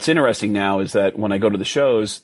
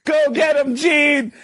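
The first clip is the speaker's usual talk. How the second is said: high cheer; slower than usual. Retold or imitated. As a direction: whoop him on like an excited fan. Cheering Gene on.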